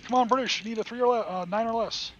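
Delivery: loud, high pleading cheer; cheering the dice. Real, not acted. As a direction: urge the roll on at full voice.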